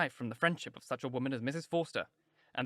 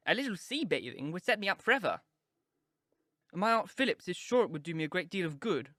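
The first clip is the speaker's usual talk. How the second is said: put-on girlish pleading; 5 semitones higher than usual. A narrator's reading. Daughters voiced in story.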